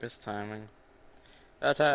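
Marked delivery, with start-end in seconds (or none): 1.6-1.9 battle cry. Acted. Yelling battle cry in game.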